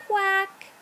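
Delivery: high, drawn quack from a little pup; storybook animal quack; puppy quacking. A narrator's reading. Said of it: "then George says".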